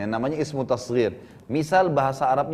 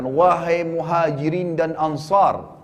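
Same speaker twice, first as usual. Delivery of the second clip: drawn-out call to a crowd, moderately raised; imitated proclamation; much slower than usual. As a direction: call out slowly, stretching the names. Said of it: "beliau teriak mengatakan". (menirukan seruan lantang yang dipanjangkan)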